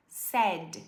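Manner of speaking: "said" rhymes with sad-ish sed. Shown as a demonstration. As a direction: zeg "said" als sed. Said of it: "igual triste".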